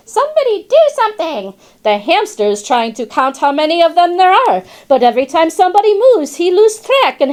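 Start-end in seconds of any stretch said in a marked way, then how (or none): 0.1-1.5 high, fast squeaky rat plea; squeaking rat. Retold or imitated. Rat squeaking for help amid the chase. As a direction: squeak it out in a panic. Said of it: "The rat squeaks".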